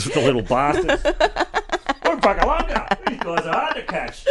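laughing through lines. Pretend. Voicing Cambo chasing pigs.

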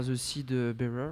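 put-on slow, deliberate English accent on the title; mock-proud English accent on The Seed Bearer. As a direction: show off a self-styled pro English accent. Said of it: "avec mon accent, euh, anglais super, professionnel".

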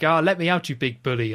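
imitating an indignant little villain; mock protesting captive. Knick-Knack to Bond from inside the suitcase, mock protest.

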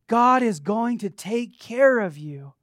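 measured, emphatic "God is going to take care of you"; emphatic assurance. Real, not acted. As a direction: punch out "God" and "care" with conviction. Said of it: "I wasn't emphatic enough".

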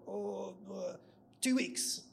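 high, hesitant blurted guess; dither, then squeak out an answer; mock panic. Panicked new writer asked how long they need, flustered high guess. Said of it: "I was so panicked".

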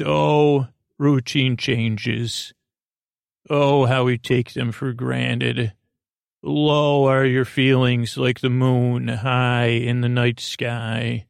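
slow, solemn poetic recital; recited ode. Acted. Host reciting an ode to routine changes, slow and solemn. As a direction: declaim it like a heartfelt ode, slowly. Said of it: "in the form of an ode".

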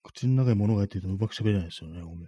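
talking with a mouthful of chocolate. Real, not acted. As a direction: mouth full, words muffled by candy.

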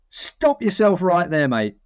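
put-on a faint stab at Vic's accent, slow and firm; half-tried Vic accent. Boss cutting off a producer, half-hearted Vic accent. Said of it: "I can't do his accent".

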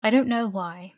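a touch of meekness; meek reply. A narrator's reading. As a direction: answer the uncle meekly. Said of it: "said meekly".

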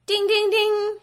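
high sing-song ding, ding, ding; game-show ding. Pretend. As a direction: chime it like a quiz-show bell. Game-show correct answer bell.

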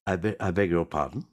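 offended tipsy gentleman; hint of a pompous drunk; lightly voiced drunk. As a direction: feign dignity while drunk. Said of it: "He said".

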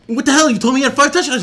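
mock outrage at a friend; retold confrontation. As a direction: demand an explanation. Confronting the guy in shul.

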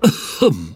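small polite throat clear; polite cough. Acted. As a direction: cough politely to get attention. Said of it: "a kind of polite polar bear cough".

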